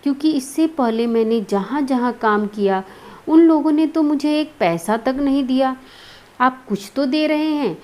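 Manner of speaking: a touch of fearful pleading; frightened. Acted. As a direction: plead timidly, lightly playing scared. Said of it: "भयभीत स्वर में".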